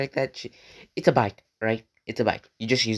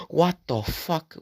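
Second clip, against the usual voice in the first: higher, slow stunned outburst; shocked; 6 semitones higher, slower than usual. Retold or imitated. Stabbed kid demanding answers, stunned outburst. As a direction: stretch it out in disbelief.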